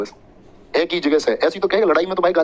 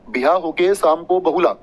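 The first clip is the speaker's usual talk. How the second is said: slow mnemonic; slower than usual. Shown as a demonstration.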